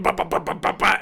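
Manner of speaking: rapid high-pitched "bah" gun noises; mouthed machine-gun burst; imitated gunfire. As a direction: fire off excited verbal gunshots. Imitates gunfire while sliding in game.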